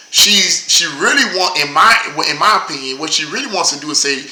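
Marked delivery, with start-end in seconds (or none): none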